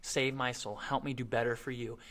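soft, humble plea to God; humble quiet prayer. Retold or imitated. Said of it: "just praying to God, saying".

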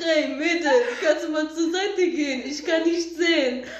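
lightly imitated Russian-Polish accent, amused; mock Russian-Polish accent through laughter. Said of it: "haut er da so seine russisch-polnischen".

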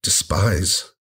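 slow, halting self-disgust; real self-reproach. Real, not acted. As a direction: let each word land after a heavy pause. Confessing self-loathing over mom's pain.

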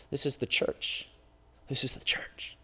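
hushed whisper. Acted. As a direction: breathe it out, reverent. Whispered repetition.

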